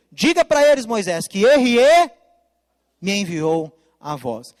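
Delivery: loud commanding call, slowing and dropping at the end; voice of God. Acted. God ordering Moses to tell the people, loud and commanding.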